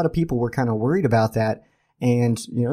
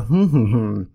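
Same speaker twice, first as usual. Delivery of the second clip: slow hummed stand-in for the word; teasing hmm. Pretend. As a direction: coyly hum the words you won't say. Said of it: "I just refuse to say those words".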